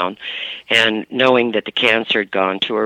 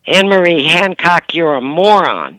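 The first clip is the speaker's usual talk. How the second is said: a light mock scolding; first time, not yet raised; mother's first jab; 6 semitones higher, 3 dB louder than usual. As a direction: daughter voicing mom's insult, only slightly up. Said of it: "all of a sudden I hear".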